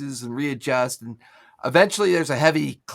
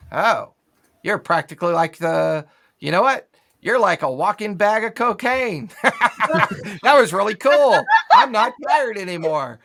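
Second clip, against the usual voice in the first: higher, louder, laughing rush of energy; like a sudden caffeine jolt; buzzing with energy; 5 semitones higher, 5 dB louder than usual. Acted. NPC reacts to invigorating aura.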